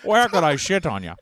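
hammed-up mock Scottish accent; insulting Scottish accent. Friend impersonating Gerard Butler, mock Scottish accent. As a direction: put on a bad Scottish brogue. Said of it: "a really insulting Scottish accent".

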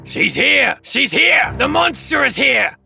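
high, far-off cry of alarm; crying out from a window. A narrator's reading. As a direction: raise the alarm in a high, swooping voice. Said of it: "a voice cried out from the window".

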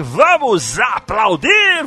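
slow, stretched showman cheer; Raul Gil voice. Retold or imitated. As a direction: drag it out like a TV host. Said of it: "Raul Gil também".

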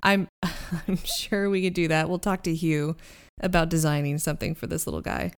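calm her down gently; calm reassuring. Acted. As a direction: NPC calming an excited Penny, reassuring. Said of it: "and he's like".

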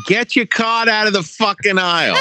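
mock grumpy shopper. Wally in the store aisle, laughing mock yell at a shopper. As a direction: snap at someone blocking the aisle, half laughing. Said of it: "Can you picture it?".

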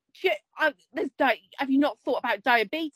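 reproachful questions, lightly hammed; retold telling-off. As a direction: imitate a husband lecturing the dog. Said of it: "he was telling her off like".

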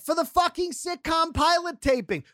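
can't believe this, pitch climbing; incredulous rant. Real, not acted.

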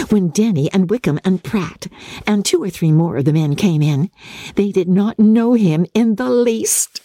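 put-on high, giggly, breathless girl gushing; giddy young Lydia. A narrator's reading. Lydia gushing to her sisters in a high giddy voice. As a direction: gush like a silly teenage girl full of gossip.

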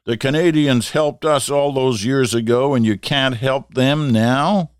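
retold yell. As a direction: shout it down the phone. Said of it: "yelled into the phone".

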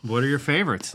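whispering. Real, not acted. Playful aside switching to fun talk.

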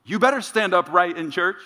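sergeant's voice. Retold or imitated. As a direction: bark like the old sergeant ordering you about in church. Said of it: "still hear that voice".

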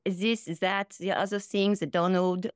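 accent drifting toward French; French-slipping Melania. Shown as a demonstration. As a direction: attempt a European first lady, sliding French. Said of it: "that's more French".

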